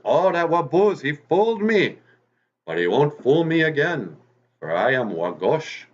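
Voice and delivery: high, loud fuming fox voice; angry fox. Acted. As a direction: spit it out, really angry now. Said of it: "Wagosh is really angry".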